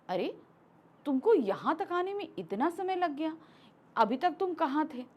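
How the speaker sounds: spoken question broken by natural pauses after अरे and गया. Shown as a demonstration. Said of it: "कहीं मैं question पूछ रही हूँ".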